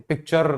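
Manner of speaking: पिक्चर with the final R rolled on; पिक्चर ending in a trilled rrr; wrong, heavy R. Shown as a demonstration. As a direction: exaggerate the last R of पिक्चर. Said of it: "नहीं बोलते".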